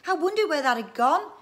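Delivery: high, loud exclaiming; boy's yell. A narrator's reading. Son finds his missing pump, exclaiming loudly. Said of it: "yelled Andy".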